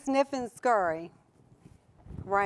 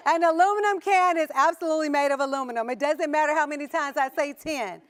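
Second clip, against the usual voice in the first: laughing; 4 semitones higher, 4 dB louder than usual. Real, not acted. Laughing after the tin joke.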